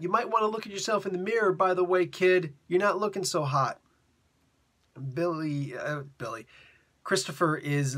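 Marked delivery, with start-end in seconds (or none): 0.0-3.8 shouting out. Retold or imitated. Clown calling out a mocking taunt to the leaving kid. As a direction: shout it after the departing kid. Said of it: "Billy goes and shouts out".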